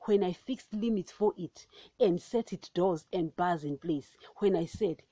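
measured, solemn Bible reading; scripture reading. Acted. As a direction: read it as the word of God. Reads Job 38 aloud.

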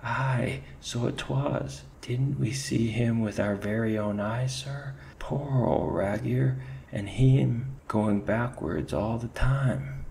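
high, loud Irish ferret voice, spooked; shaken Irish ferret. Acted. Ferret backing up his mate to the chief, Irish lilt.

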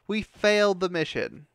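slow, loud, dragging each word; slow seething repeat. Real, not acted. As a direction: spell it out slowly through the anger. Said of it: "I am very pissed".

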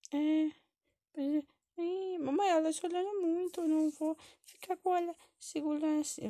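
high-pitched mock-tearful kid; whining child. Child refuses to hold crying baby, high and whiny. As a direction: complain in a high little child's voice.

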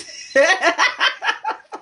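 high, helpless laughing fit; real laughter. Real, not acted. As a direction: collapse into high giggles. Laughs after telling an awkward moment.

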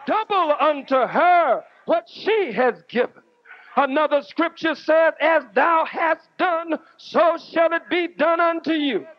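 rolling sermon cadence, each line pressed hard; fiery sermon to a packed hall; preaching at full force. Real, not acted. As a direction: preach it to the crowd, building. Preaches to crowd about Farrakhan.

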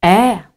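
Е as a single held vowel; Е stretched for a phonics demonstration; isolated vowel sound. Shown as a demonstration. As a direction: sound out Е alone, drawn out. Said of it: "Проаналізуємо звуки".

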